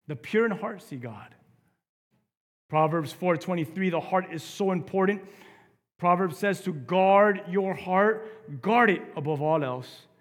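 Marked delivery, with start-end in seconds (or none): 2.7-10.1 forceful preaching. Acted.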